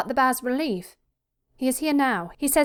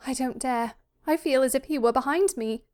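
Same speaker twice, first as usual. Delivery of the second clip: put-on high, timid young lady; fearful daughter; 5 semitones higher than usual. Daughter afraid her father overhears, high and fearful. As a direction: shrink from confiding, pitch raised.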